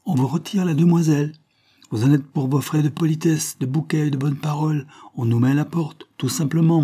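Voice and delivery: high, indignant tirade; angry, scornful listing; enraged. A narrator's reading. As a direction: rail at the insult, pitch held high. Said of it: "folle de rage".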